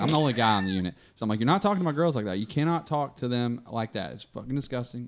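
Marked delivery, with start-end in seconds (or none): 1.4-5.1 stern, pissed off. Retold or imitated. Nurse warns patient off his staff, controlled sternness. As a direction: lay down the rules without raising your voice. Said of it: "I'm trying to be stern".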